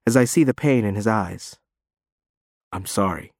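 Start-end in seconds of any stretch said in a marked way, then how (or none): 2.7-3.3 soft, quiet broken apology. Acted. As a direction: say it as if breaking. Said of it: "he says brokenly".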